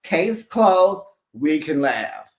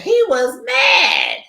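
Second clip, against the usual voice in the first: emphatic; 12 semitones higher, 6 dB louder, slower than usual. Real, not acted. Emphatic mock outrage.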